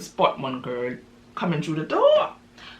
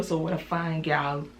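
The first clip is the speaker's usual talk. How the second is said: smooth talker; 6 dB quieter than usual. Retold or imitated. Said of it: "sugar on his tongue".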